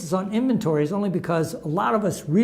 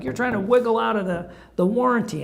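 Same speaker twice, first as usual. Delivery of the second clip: higher-pitched mock indignation, no real shouting; retold livid accusation; 5 semitones higher than usual. Customer accusing the car shop over the phone, mock livid. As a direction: re-enact an irate customer's accusation. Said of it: "And I was livid".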